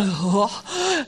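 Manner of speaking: soft, breathy mock gasp; low sighed 'oh' as if overwhelmed; imitated gasp. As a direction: imitate being winded by awe. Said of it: "you just stand there and you go".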